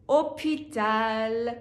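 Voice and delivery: اوپیتال said slowly with a silent h; اوپیتال، بدون ه، آهسته و کشیده; French hôpital. Shown as a demonstration. (اوپیتال را بدون صدای ه و آرام بگو)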